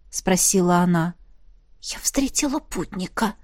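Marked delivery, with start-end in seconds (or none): 1.8-3.3 whispered, barely voiced; hushed breathy secret. A narrator's reading. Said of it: "прошептала я". (шёпотом)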